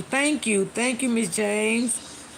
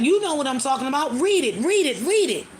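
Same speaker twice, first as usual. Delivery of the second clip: raised, fast, insistent mock yell; retold angry demand; 4 semitones higher than usual. Boyfriend pushing DNA papers at girlfriend, mock angry yell. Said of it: "He was like".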